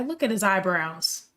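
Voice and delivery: ordinary talk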